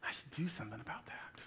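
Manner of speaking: unvoiced whisper to yourself. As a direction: mutter it under your breath. Mirror self-talk.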